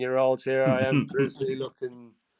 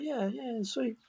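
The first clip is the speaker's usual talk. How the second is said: mock chuffed; 10 semitones higher, 8 dB quieter, slower than usual. Self-quote, pleased with his plan.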